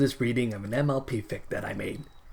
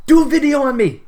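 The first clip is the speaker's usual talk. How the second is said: much higher, louder excited little cry; pleading fanfic; 13 semitones higher, 12 dB louder than usual. Pretend. The fanfic itself begging the reader, in an excited squeal. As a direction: squeal it like the story begging to be picked. Fic personified, calls to reader.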